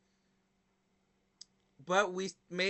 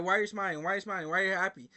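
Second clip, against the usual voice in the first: pissed customer; 3 dB louder, much faster than usual. Retold or imitated. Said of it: "he was so pissed".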